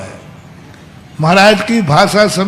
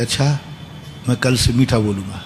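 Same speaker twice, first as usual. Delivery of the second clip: meek agreement; 8 semitones lower, 9 dB quieter than usual. Retold or imitated. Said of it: "उसने इतने प्यार से कहा".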